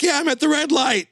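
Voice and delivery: high, showy phone-bragging voice; proud to be driving on a car phone; early cell phone caller. Retold or imitated. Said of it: "that Seinfeld episode".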